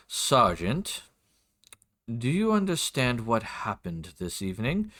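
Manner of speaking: lightly voiced formal lord; a hint of a measured, courteous nobleman; lord's voice. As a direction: question a subordinate as a polite lord. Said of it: "do my best for his voice".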